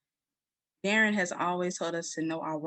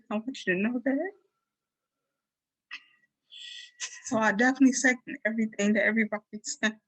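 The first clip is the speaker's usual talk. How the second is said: ugly crying; 3 semitones higher than usual. Real, not acted. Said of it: "I'm making an ugly cry right now".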